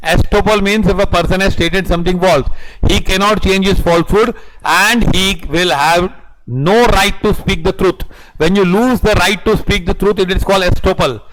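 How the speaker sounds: very slow, word by word, for note-taking; slow dictation. Acted. Teacher dictating the estoppel definition to students, very slow. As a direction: spell it out so the class can write it down.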